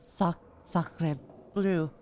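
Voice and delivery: slow, halting attempt at French; tentative French pronunciation; French accent. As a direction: sound out the French phrase unsurely. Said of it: "Is that how you say it?".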